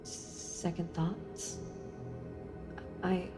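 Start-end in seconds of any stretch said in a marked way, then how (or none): 0.0-1.6 slow hushed question; whispering. Acted. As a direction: whisper it, drawn out. Suspicious question to Dreamer.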